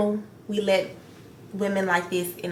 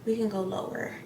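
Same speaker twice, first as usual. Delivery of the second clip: mock Erica; 3 semitones higher, 7 dB quieter than usual. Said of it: "Erica was like".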